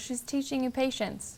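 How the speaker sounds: very sweet, kind, nicest voice. Retelling words heard through clairaudience: imitating the nicest voice ever. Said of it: "says in the nicest voice ever".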